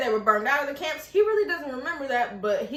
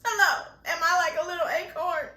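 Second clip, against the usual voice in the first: higher, mock-childlike phone greeting; playful call to mom; 4 semitones higher than usual. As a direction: pretend to ring mom, half laughing.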